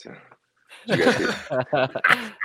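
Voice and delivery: very high, slow laughing question; delighted, inviting everyone in; squeaky, drawn-out did you see that; excited. Real, not acted. Joking about near collision.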